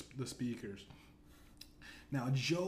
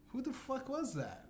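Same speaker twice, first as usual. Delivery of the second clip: much higher, pitched-up disbelieving questions; mock incredulous demand; 11 semitones higher, 3 dB quieter than usual. Narrator confronting Biden about the wink, mock high outrage. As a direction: squeak out the challenge in mock outrage. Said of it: "I'm like".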